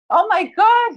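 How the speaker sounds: a retold burst of panic; imitating the dentist's shocked cry; frantic gasp. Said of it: "he was frantic".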